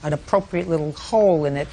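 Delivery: dry mocking sarcasm; sarcastic scolding tv judge. Real, not acted. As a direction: ridicule the excuse drily. Judge ridicules bathtub excuse.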